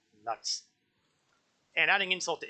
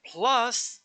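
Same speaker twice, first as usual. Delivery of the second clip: savoured, punchy plus; relished plus; 8 semitones higher, 5 dB louder than usual. Real, not acted. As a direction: lean into the word plus with relish. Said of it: "because I can never get tired of saying plus".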